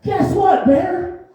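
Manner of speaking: put-on high, excited girlfriend calling out; an excited woman shouting the news way up high; excited squeal. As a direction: burst out with big news, high and bright. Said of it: "she was like".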